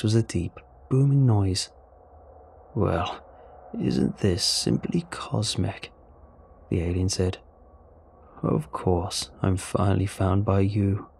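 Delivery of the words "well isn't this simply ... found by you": slow, wry alien voice; lightly voiced alien, savouring the irony; amused alien. Alien reacts to learning of Earth, slow and wry.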